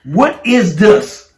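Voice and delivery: very slow, drawn-out mock demand; mocking wife. Husband imitating his wife confronting him, slow and mocking. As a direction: mimic her, stretching out every word. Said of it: "Are you, are you mocking me?".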